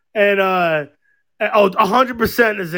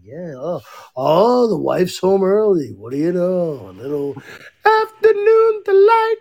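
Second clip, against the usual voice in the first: mock cheesy narrator. Mock porn-style narration of neighbor.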